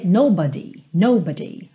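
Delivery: "nobody" with a clear D, British style. Shown as a demonstration. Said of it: "no britânico seria".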